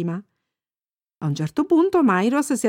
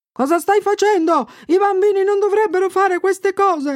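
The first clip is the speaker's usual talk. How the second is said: high, raised scolding voice; old man's yell; 11 semitones higher, 4 dB louder than usual. A narrator's reading. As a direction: scold a child as a shouting old man. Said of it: "un vecchietto con un sacco sulle spalle che urlò". (vecchietto che sgrida urlando)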